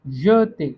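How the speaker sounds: "य ते" stressed firmly as a model for learners; pronunciation demo. Shown as a demonstration. French teacher showing learners how to pronounce the word, demonstrative. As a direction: say "य ते" as two clear syllables, loudly. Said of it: "इसको कैसे pronounce करेंगे".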